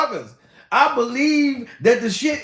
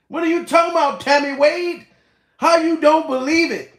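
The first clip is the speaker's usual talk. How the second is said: higher, louder disbelief at Tammy; exasperated call-out; 7 semitones higher, 4 dB louder than usual. Real, not acted. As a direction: call her out, incredulous. Arguing with commenter Tammy.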